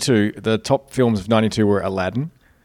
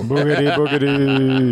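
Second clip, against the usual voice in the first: a hint of spooky Vincent Price; lightly voiced horror host; 3 semitones higher, slower than usual. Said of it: "That was my Vincent Price impression".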